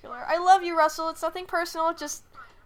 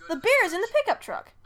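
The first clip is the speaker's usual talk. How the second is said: beer's higher and louder, falling end; excited take; 8 semitones higher, 6 dB louder than usual. Shown as a demonstration. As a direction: say it with a bright excited lift. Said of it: "distinguish different inflections".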